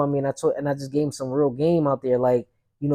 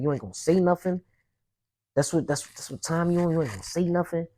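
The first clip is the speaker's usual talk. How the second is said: retold angry challenge; 3 semitones higher than usual. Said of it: "I'm just talking like that".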